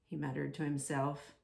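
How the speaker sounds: put-on lively storybook narration for kids; animated read-aloud for little ones; reading to children. A narrator's reading. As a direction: tell it like a bedtime picture book. Reads picture book to children.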